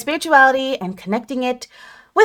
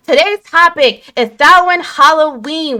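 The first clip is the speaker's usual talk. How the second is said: announcer; 6 semitones higher, 4 dB louder than usual. Acted. Launching the show topic.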